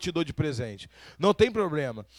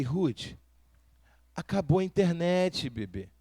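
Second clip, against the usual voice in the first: put-on softer, lower, gentle with baby; father explaining the internet is off to his daughter, tenderly; soft reassurance; 3 semitones lower, 5 dB quieter, slower than usual. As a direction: soothe a sleepy child. Father soothing daughter at night.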